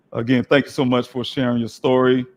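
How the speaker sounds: hoarse, strained voice from losing it. Real, not acted. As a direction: speak through a hoarse, failing voice. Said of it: "I'm still losing my voice".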